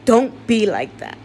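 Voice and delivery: grieving patient shouting down the hospital that failed her family; angry rant. Real, not acted. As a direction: let the anger at the hospital boil over.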